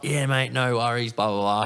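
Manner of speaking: lightly imitated easygoing mate; breezy agreement. Scotty agreeing to get tattooed, breezy agreement. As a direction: toss it off, pitched a little up. Voicing friend's easy agreement to offer.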